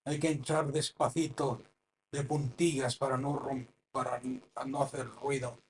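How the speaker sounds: a softly mocked church hush. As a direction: tiptoe it, mocking the quiet rule. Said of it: "como escuchaba un predicador".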